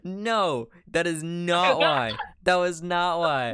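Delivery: exasperated, insistent denial; indignant protest. Real, not acted. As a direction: push back hard on the accusation. Protesting a teasing accusation of racism.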